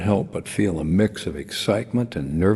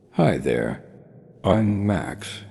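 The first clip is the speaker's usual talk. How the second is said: put-on Australian accent; 3 semitones higher, slower than usual. A narrator's reading. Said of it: "in a bright Australian accent".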